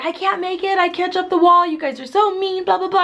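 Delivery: high mock whine; imitating the lagging friend, whiny and high. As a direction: whine it like the friend who can't keep up. Mocking a friend who lags.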